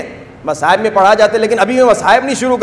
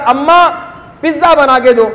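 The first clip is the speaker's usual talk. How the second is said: put-on child asking for pizza; 4 semitones higher than usual. Son asking mother.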